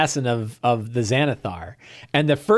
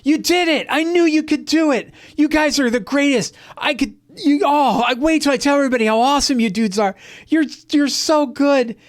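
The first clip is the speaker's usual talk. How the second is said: high, excited cheering squeal that speeds up then stretches out; a bunny fanboy praising the heroes; tiny rabbit cheering the party after the fight; gushing high rabbit voice; 12 semitones higher than usual. Retold or imitated. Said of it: "Thumper is like".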